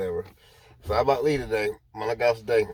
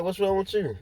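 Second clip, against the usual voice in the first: concerned surprise; 10 semitones higher than usual. Retold or imitated. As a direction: pitch the question way up, worried. Repeats the question to crying coworker.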